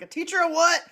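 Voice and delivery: laughing disbelief at being told to teach; laughing indignant retort. Retold or imitated. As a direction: scoff at the spirit beings while laughing. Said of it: "And I'm like".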